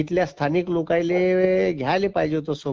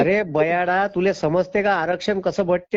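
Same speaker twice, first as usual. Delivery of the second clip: raised, insulting scold; angry retort; 3 semitones higher, 5 dB louder than usual. Real, not acted. Teacher scolding a rude caller, angry. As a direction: tear into the caller with contempt. Heated phone quarrel, insults.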